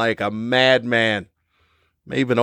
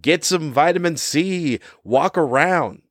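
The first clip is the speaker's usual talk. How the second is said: mocking sister's advice; 6 semitones higher than usual. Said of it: "It's like".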